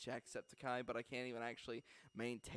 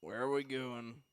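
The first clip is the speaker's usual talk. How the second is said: slow, lightly done outlaw drawl; a hint of the weary cowboy; easy Red Dead drawl, slowed at the end; Arthur Morgan impression; 3 dB louder than usual. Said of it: "the Arthur Morgan".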